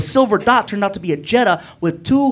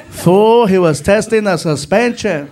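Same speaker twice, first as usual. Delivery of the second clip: back-seat friend; 4 dB louder, slower than usual. Retold or imitated. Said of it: "from the back seat".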